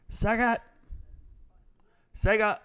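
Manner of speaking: short, high-pitched yell; Sega commercial yell. Retold or imitated. Streamer yelling out the brand like old commercials, high yell. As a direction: yell it out like a jingle tag. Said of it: "they would just yell out".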